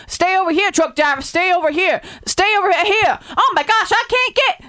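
panicky caller. Acted. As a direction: call out in growing panic at the truck. Reenacted caller panicking at crash.

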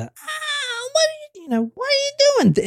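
very high, strained, muffled cry; a terrified boy screaming through a wall; imitating a muffled, terrified scream from another room. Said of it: "They can hear the screams".

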